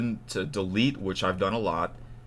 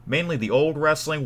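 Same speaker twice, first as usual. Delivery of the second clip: loud, higher-pitched plug; too loud; 6 semitones higher, 6 dB louder than usual. Real, not acted. Plugging the wrestling channel, too loud. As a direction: project it keenly at viewers. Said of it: "I was talking too loud".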